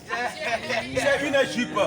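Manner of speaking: J'ai une jupe drawn out very slowly, syllable by syllable; slow right down after the class gets it wrong; very slow model. Shown as a demonstration. Teacher correcting the class, very slow model. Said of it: "vous trop faux".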